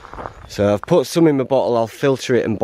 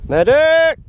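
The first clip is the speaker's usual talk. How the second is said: high, loud cry for a medic; man down shout; 5 dB louder than usual. Pretend. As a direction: yell for a medic like a wounded soldier. Calling for help as a joke.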